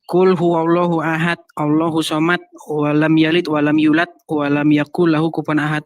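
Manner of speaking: low, monotone Quran recitation; uninflected learner's reading, pitched low; plain untrained recitation. Retold or imitated. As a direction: recite it low and even, like a beginner. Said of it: "saya bacanya begini".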